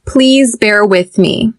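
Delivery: slow, clear model sentence for students to repeat. Shown as a demonstration. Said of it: "We'll use the sentence".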